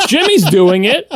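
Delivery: put-on high, complaining kid voice; mock kid protesting to a parent; whiny child. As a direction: whine it like a child asking why Jimmy gets to. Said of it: "because you say".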